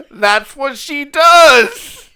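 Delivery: high, loud, helpless laughing while talking; wheezing laughter. Real, not acted. Ribbing mom's bargain logic to family, wheezing with laughter. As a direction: force the words out through a wheezing laugh. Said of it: "Did you hear him wheeze?".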